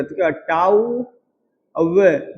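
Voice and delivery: टाउ and अवे pulled apart slowly; split syllables. Shown as a demonstration. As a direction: break towel into tau and ave. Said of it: "अब जब टॉवेल बोलोगे".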